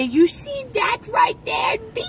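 put-on high Cajun old man voice. Shown as a demonstration. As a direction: play a Cajun old-timer. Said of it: "You sound like an old man".

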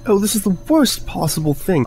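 high, fretful wail; panicked wail. Acted. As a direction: wail in despair. Quarrel, panicking friend.

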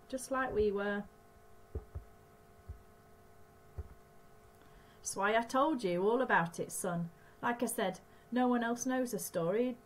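lightly voiced old stranger; a hint of a knowing old man; stranger's voice. Stranger's long speech.

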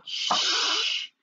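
soft unvoiced shush; teacher's soft shush; hush. A narrator's reading. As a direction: hush the laughing class gently. Teacher hushing class.

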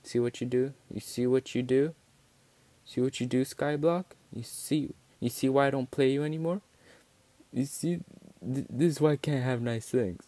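high, exasperated mock telling-off; mock scolding. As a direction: scold the game like it misbehaved. Scolds the game after failing.

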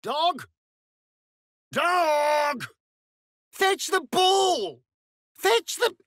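high, sing-song call to a dog. Acted. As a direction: coax the dog brightly, stretching "ball". Calling a dog to fetch.

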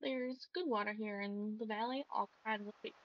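lightly voiced country accent; easygoing country fisherman. Fisherman tells the farmer about the valley, in a light country accent. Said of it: "more and more country".

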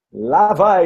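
loud, drawn-out game-host call. Real, not acted. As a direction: call out the next round with gusto. Anuncia a próxima rodada do jogo. (chamada alta e prolongada de apresentador)

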